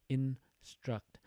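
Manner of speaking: "instruct" slowly, in two separate beats; split into syllables. Shown as a demonstration. Teacher showing students the two syllables, "instruct" said slowly syllable by syllable. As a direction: break "instruct" into IN and STRUCT. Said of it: "your chin will drop twice".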